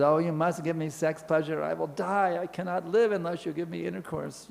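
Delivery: mildly acted pleading; retold urgent begging. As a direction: plead as a desperate temptress, lightly played. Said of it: "Begging, begging, begging for intercourse".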